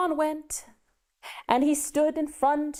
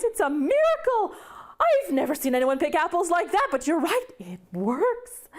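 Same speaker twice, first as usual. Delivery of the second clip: high, bright burst of amazement, then settling down; amazed Clara; 5 semitones higher than usual. Acted. Clara amazed at apple picking.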